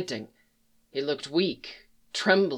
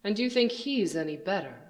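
cold villain voice; 3 semitones higher, 10 dB quieter than usual. Acted. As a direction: speak down to him, coldly. Villain speaks.

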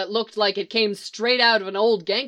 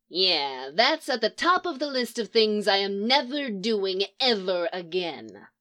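drawling shudder. Acted. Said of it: "Leonard drawled with a shudder".

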